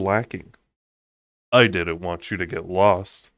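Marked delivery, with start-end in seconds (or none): 1.5-3.3 bland. Acted. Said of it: "he said blandly".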